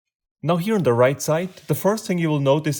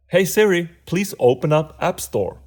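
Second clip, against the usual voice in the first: voice assistant command. Real, not acted. Speaking a command to Siri.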